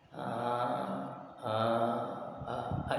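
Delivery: soft, half-hearted imitated baby whimper; weak baby cry. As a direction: mimic a baby crying feebly. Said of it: "tapi nangisnya pelan-pelan". (tiruan tangis bayi yang lemah dan pelan)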